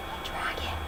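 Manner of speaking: very soft breathy whisper. Acted. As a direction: barely breathe the words. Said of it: "Elizabeth whispered softly".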